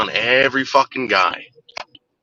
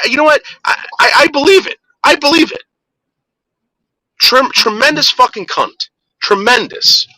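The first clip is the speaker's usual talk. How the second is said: pitched way up, incredulous fury; outraged outburst; 11 semitones higher than usual. Real, not acted. Venting about Sherry Kay to his co-host, a high outraged rant. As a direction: voice cracking high with disbelief and rage.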